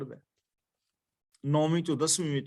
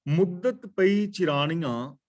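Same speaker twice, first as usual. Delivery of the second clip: scripture recitation; slower than usual. Acted.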